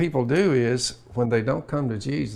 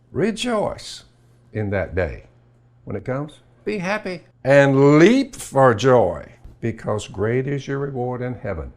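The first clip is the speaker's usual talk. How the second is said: joyful scripture preaching; 3 dB louder than usual. Acted. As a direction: proclaim it like a sermon.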